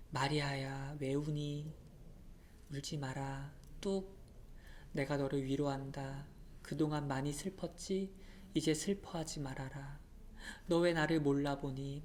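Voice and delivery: soft, quiet consoling voice; gentle comfort. Acted. Jesus consoling weeping Mary, soft and gentle. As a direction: soothe her like a crying child.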